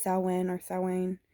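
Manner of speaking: Samhain said as SOW-in, then SOW-ayn; two correct pronunciations. Shown as a demonstration. Host giving the actual correct way to say it, two pronunciations of Samhain. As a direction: give Samhain twice, "sow-win or sow-wayn". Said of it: "the actual correct way to say it".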